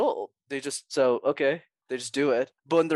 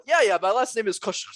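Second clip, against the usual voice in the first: mock agreeable; 8 semitones higher, 3 dB louder than usual. Acts going along with mispronunciation.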